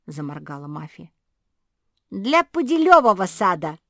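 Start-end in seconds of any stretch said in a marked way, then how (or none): 2.1-3.8 very loud, high blurt. A narrator's reading. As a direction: fire it out fast and proud. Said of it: "выпалила Жози".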